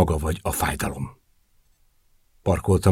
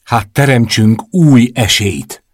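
pleading; 4 semitones higher, 6 dB louder than usual. A narrator's reading. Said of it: "kérlelt".

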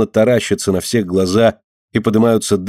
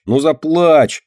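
higher, pushier 'ну заплачь!'; insistent tease; 6 semitones higher, 3 dB louder, much slower than usual. A narrator's reading. Dinka teasing Myshka, higher insistent urging. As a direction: push harder, mocking. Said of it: "дёргает её Динка".

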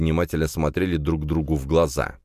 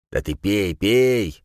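urging; 4 semitones higher, much slower than usual. A narrator's reading. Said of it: "начал подгонять меня Дорн".

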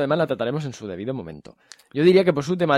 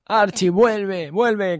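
pleading; 5 semitones higher, much slower than usual. Acted. Pleading for cohost to return.

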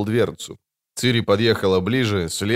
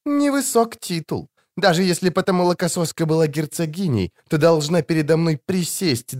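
high, scornful taunting; contemptuous threat; 6 semitones higher than usual. A narrator's reading. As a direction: belittle and menace her. Ciri threatens the noble girl.

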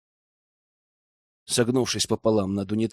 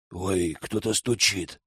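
soft, slow, frightened hush; panicked whisper; 5 semitones lower, 5 dB quieter, slower than usual. Acted. Witch hears knocking, whispers softer and slower in panic. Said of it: "в панике прошептала ведьма".

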